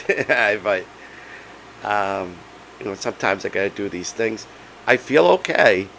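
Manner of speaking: hoarse, strained laryngitis voice; voice giving out. Real, not acted. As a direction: talk through a lost voice. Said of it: "I have laryngitis".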